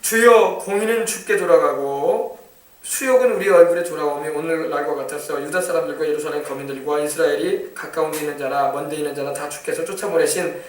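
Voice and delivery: solemn, measured Bible reading; scripture reading. Acted. Preacher reading Daniel's prayer aloud, solemnly. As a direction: read the prayer with gravity.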